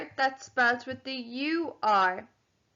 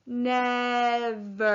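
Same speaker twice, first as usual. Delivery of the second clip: NEVER stretched into two long syllables; said slowly. Shown as a demonstration. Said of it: "Say the word slowly".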